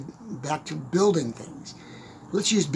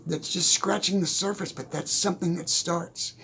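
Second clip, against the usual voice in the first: usual speaking voice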